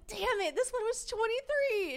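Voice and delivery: very high, slow comic lament; dismayed wail. Retold or imitated. Woman complaining to friend about guest's age, high mock wail.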